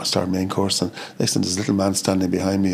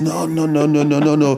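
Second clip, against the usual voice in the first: raised, louder run of mock refusals; retold refusal; 7 semitones higher, 4 dB louder, slower than usual. Chef refusing butter in mashed potato, retold emphatic refusal. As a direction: reject it emphatically, imitating someone else.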